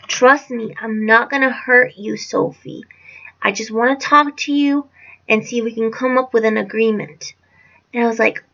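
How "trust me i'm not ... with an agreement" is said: measured, reassuring imitation; calm voice. Stepfather coaxing a girl from a locked car, imitated calm voice. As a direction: coax calmly, mimicking reassurance. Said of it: "with a very calm voice".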